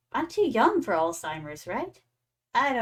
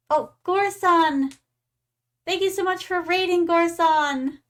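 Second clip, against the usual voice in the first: excited; 6 semitones higher, 4 dB louder, slower than usual. Real, not acted. Thanking a raider excitedly.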